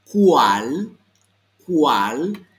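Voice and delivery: loud, drawn-out "Cuál" with a strong kw onset; "Cuál" said as one long emphatic "kwal"; careful phonetic model. Shown as a demonstration. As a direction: punch out "Cuál" slowly for students to repeat. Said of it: "te fijes mucho en la fonética".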